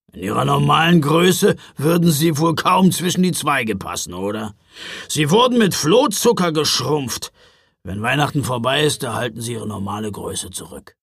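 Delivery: forceful gruff explanation, easing off at the end; grumpy Knecht Ruprecht, exasperated. Acted. Driver explaining shrunken elves to a puzzled boy, exasperated. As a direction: explain the obvious with gruff impatience.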